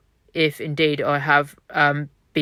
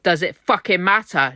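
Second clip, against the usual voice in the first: impassioned, slightly raised voice; 3 semitones higher than usual. Real, not acted. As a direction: ask it with rising passion. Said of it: "I've raised my voice".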